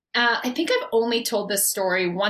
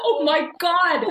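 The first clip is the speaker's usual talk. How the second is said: laughing; 6 semitones higher, 4 dB louder than usual. Real, not acted. Laughs recalling being locked in.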